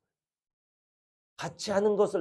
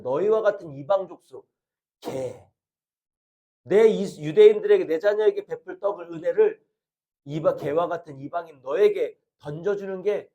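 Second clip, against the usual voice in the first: cold stern rebuke; 4 dB louder than usual. Retold or imitated. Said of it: "매멸차게, 냉정하게, 수치심을 주면서".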